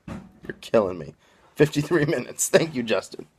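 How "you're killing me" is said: killing drawn long in playful despair. Real, not acted. Exasperated banter at Mike, repeated.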